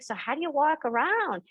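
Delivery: lightly voiced curious small child; curious four-year-old. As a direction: ask like a puzzled little boy. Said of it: "And he's like".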